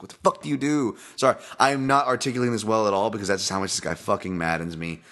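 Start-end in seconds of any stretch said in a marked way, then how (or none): 0.0-1.0 exasperated retort. Retold or imitated. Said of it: "And I'm just like".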